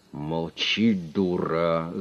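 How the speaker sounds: put-on a sharp, angry snap at the girl. A narrator's reading. Boss snapping at his frightened secretary, angrily. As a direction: cut her off with spite. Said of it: "зло сказал".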